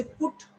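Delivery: "put" with a quick, short vowel; short u in "put", set against a long one. Shown as a demonstration. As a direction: keep "put" brief. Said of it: "So this is short".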